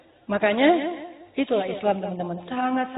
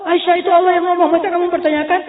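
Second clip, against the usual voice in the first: loud, high, indignant challenge; mock scolding; 8 semitones higher, 7 dB louder, faster than usual. Imagined Prophet questioning Aisyah's doubt, loud mock scolding. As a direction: scold her in a raised, acted voice.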